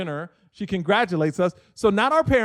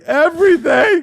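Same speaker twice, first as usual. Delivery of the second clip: much higher, louder, stretched-out cry; overwhelmed proposal outburst; 10 semitones higher, 9 dB louder than usual. Retold or imitated. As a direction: re-enact it at full emotional pitch. Re-enacting his emotional proposal.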